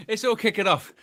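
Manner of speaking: high, excited call; excited exclaim. Real, not acted. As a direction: announce the chaos with excitement. Excited again.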